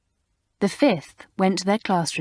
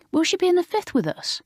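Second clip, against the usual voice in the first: eager question; 13 semitones higher than usual. Acted. Asking Mamselle at breakfast.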